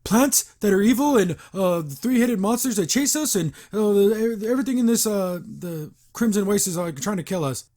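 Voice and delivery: mock-jokey cartoon recital of dangers; joking exposition. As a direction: imitate characters lightly joking through exposition. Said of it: "like, in a joking way".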